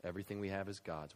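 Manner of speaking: usual speaking voice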